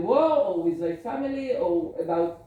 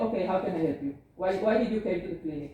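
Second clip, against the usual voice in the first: a touch of cold impatience; brusque without much push; mildly curt doctor; 3 semitones lower, faster than usual. Shown as a demonstration. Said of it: "a totally different feeling than if I'm saying".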